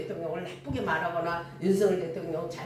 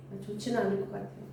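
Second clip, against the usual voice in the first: sheepish reply; 2 semitones lower, 7 dB quieter, faster than usual. Retold or imitated.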